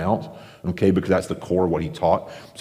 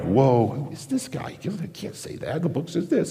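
indignant disbelief; 7 semitones higher, 4 dB quieter than usual. Retold or imitated. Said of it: "they're like".

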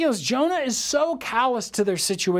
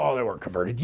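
a hint of a dismissive doubter; mocking doubt; 9 semitones lower, faster than usual. Preacher mimicking doubters, low dismissive scoff. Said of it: "People go".

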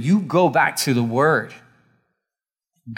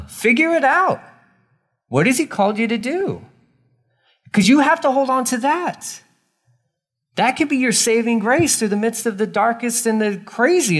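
fervent exhortation; 9 semitones higher than usual. Real, not acted. Preacher pushing drifting Christians to act, fervent. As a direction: shake them awake.

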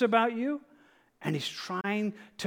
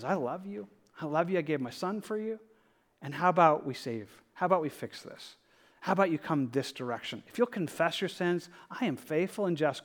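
tender God's voice; 5 dB quieter than usual. Acted. Preacher voices God's loving words.

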